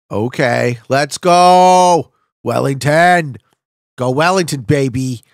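loud rallying call, stretched out; pumped-up shout; real hyped cheer. Real, not acted. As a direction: cheer on your own guess. Committing to a guess, cheering it on.

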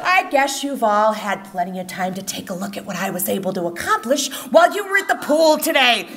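sweet-as-pie mom with a threat underneath; syrupy threatening mom. Retold or imitated. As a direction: purr it like a housewife about to strike. Mother's sugary menacing welcome.

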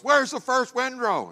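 high, loud mock demand; high-pitched retold scolding; angry father. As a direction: imitate a furious dad confronting his son. Angry father confronting son.

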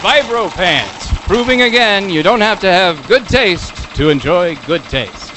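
hard sell ad. Acted. Slogan delivered as ad.

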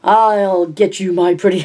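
slow, high hammed-up witch cackle line; mock the witch, drawn out and high; wicked witch line. Narrator playfully quoting the witch, slow and high. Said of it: "I thought".

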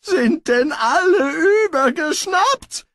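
high, loud wail of despair; exasperated groan. Acted. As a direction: cry out as if everyone's mad. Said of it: "ächzte Pismeier".

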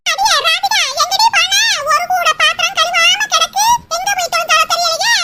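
loud scolding call across the house; mother-in-law hollering about unwashed dishes, loud and scolding; yelling mother-in-law. Acted. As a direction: bellow for the daughter-in-law. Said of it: "என் மாமியார் அலற ஆரம்பிச்சிருச்சா?".

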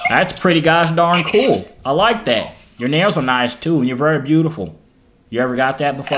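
a light put-on country accent while flirting. Flirting with a stranger on video chat, in a country accent. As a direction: lay on a lazy Southern country accent, smooth talker. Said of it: "country accent sucks".

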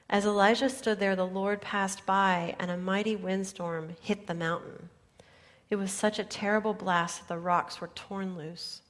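loud, booming scripture reading; dramatic build. Acted. Preacher reading the storm to congregation, booming. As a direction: thunder out the windstorm.

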